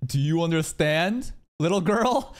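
mock condescension, slow and drawn out, rising at the end; patronizing. Reactor parodies the envoy talking down to a little girl, patronizing. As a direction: talk down slowly as if to a child. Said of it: "Felt a little patronizing".

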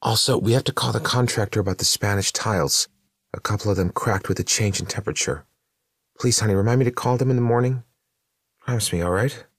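a dead wife chattering about chores; ghostly wife Vicky, pleading. Acted.

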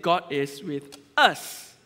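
slow, "God" stressed in a questioning tone; a slow, pondering question about "God"; stress on GOD, asking. Shown as a demonstration. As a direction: stretch it out and weigh "God". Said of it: "or is it".

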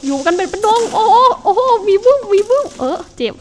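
high, loud, laughing yells as creepers swarm; excited laughing shout. Real, not acted. Gamer yelling at exploding creepers, laughing and loud. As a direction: shout and laugh through the chaos.

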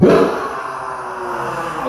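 long, drawn-out "ah" of release; imitated cry. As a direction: act out a mother's grief bursting out. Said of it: "un grito y fue liberada". (grito de desahogo imitado)

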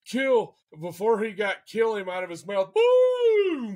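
high-pitched triumphant burst, booming on the shot; excited shout. Retold or imitated. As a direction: blurt it out as the gun goes off.

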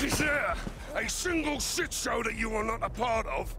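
exasperated shout. Acted. Captain yelling at the general he finds, exasperated shout. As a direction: yell it in fed-up disbelief.

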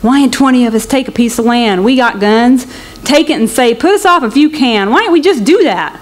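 a worked-up migrant, voice lifted; rallying the others to take land; excited man. Acted. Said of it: "an excited man".

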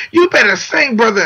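high retold holler; mock yell. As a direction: imitate a fan yelling praise from a car window. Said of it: "in the car screaming at me".

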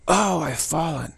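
high, slow mock fretting after a fall; high, slowed mock alarm at falling; mock dismay. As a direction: play a flustered faller, slowly. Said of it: "You don't go".

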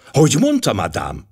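startled exclamation. Acted. Poirot, stunned by the ivy claim, exclaims in surprise. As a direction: blurt it out, shocked. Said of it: "Kiáltott fel Poirot döbbent arckifejezéssel".

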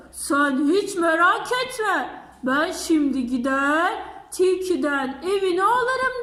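boastful bear. Acted.

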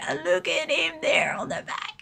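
hushed excited whisper; whispering in delight. Real, not acted. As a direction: breathe it out in a whisper. Gushing over figure's back.

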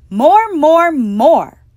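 put-on loud demanding child's cry; cried out. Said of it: "I cried".

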